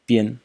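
bien repeated on a level tone; first tone. Shown as a demonstration. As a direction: pronounce bien in Mandarin, pitch held even. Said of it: "and the first tone".

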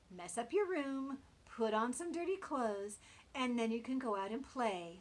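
bossy mama. Acted. Mama Pig instructs son.

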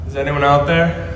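loud call for help. Acted. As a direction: shout it out to anyone outside. Calling out from trapped room.

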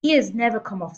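loud, emphatic dismissal; shouted. A narrator's reading. Headmistress dismisses teacher's fears about the boy, shouting. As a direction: shout it down with a punched first word. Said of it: "the Trunchbull shouted".

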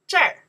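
这儿 with a soft curled r, zher; 这儿 soft and rolled. Shown as a demonstration. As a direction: curl 这 into zher. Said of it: "more soften".

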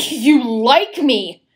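laughing, slow and scornful. Acted. Woman laughing scornfully at the man's confession. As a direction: laugh it off in disbelief.

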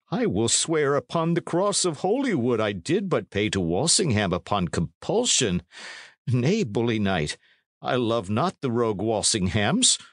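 a touch of earnest protesting; lightly voiced pleading innkeeper. Innkeeper swearing loyalty to the knight, mildly pleading. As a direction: protest loyalty to your lord, lightly acted.

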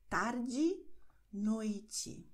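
tarde said tardi, noite said noiti; final e as i. Shown as a demonstration. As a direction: let the last e of tarde turn into i. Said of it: "werden so ausgesprochen".

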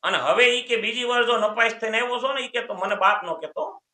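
a touch of an angry father. Retold or imitated. Father lightly scolds the son who failed his exams. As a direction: scold the failing son half in earnest.

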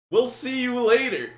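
high, loud scammer impression; hammed-up hasty goodbye from a scammer; mock backing-off scammer. Retold scammer hastily backing off.

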